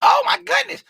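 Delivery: very high, loud squealed exclamation; amused outburst. Real, not acted. Host reacts to Tim calling names out, amused outburst. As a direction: cry out high and loud, tickled by the joke.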